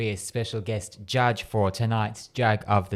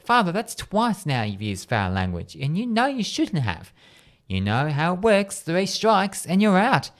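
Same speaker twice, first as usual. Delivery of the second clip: stern telling-off, rising higher as it builds; scolding; 5 semitones higher than usual. Acted. Nun warning the priest about foul language, scolding. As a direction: let him have it, counting his offences. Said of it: "the nun lets him have it".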